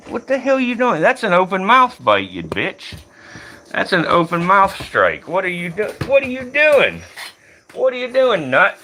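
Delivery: real shock at the strike; sharp startled what are you doing; startled outburst. Real, not acted. Snake strikes at him.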